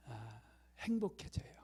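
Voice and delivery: breathy whisper of happiness. Real, not acted. Preacher to congregation, hushed whisper. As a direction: whisper it like a secret joy.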